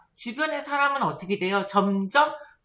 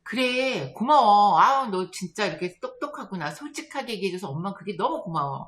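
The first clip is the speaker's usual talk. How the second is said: warm praise. Retold or imitated. Mother thanking child for owning up, warm praise. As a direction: praise a child with acted delight.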